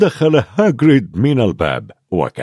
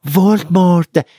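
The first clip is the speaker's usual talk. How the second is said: higher, louder call of the name; shouting; 7 semitones higher, 3 dB louder than usual. Acted. Harry shouts the name at Hagrid, louder and higher. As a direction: fling the name out defiantly. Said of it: "صاح هاري".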